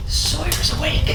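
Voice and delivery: high slow sing-song. Real, not acted. Baby wakes up.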